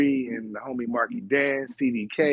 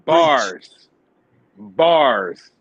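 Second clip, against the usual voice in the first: hype call; 8 dB louder, much slower than usual. Real, not acted. Hyping a good line.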